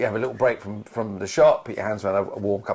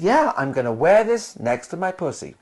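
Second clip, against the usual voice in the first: mock American actress accent, higher; bad American accent; 5 semitones higher than usual. Actress answering the shocked crew, in a terrible American accent. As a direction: repeat it in a rough American accent. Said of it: "I did the terrible accent".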